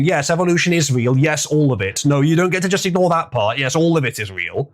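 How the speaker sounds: insistent arguing. Retold or imitated. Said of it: "I'm arguing".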